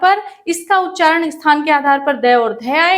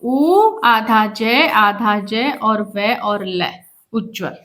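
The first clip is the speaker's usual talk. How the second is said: slow spelling out; 4 semitones lower, slower than usual. Shown as a demonstration. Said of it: "जबकि होगा क्या?".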